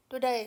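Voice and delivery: टुडे with a gliding "day-ee" ending like an English commentator; टुडे ending in a clear ey glide; correct diphthong. Shown as a demonstration. Teacher modelling the commentator's टुडे. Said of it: "वो बोलेगा डे".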